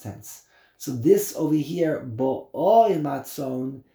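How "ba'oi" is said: "Ba'oi" with a long, leaned-on OI; slow "Ba'oi", weight on the second syllable; stress on last syllable. Shown as a demonstration. Teacher proving it is present tense, end-stressed "Ba'oi". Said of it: "is the present tense".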